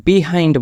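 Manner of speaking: "behind" slowly, with bee as first syllable; common mispronunciation. Shown as a demonstration. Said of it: "যে উচ্চারণটা বললাম একটু আগে". ("behind"-কে ধীরে "বিহাইন্ড" উচ্চারণ)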